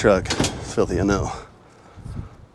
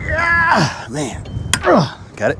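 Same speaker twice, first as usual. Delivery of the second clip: pained high grunts while straining; strained in pain; much slower than usual. Real, not acted. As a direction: strain through real pain. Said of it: "Man, that hurt".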